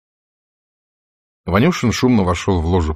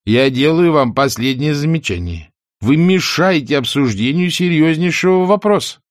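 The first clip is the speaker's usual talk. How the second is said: higher, louder stern reprimand; stern rebuke; 8 semitones higher, 4 dB louder than usual. Acted. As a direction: scold him from the chair. Chairman rebukes heckler.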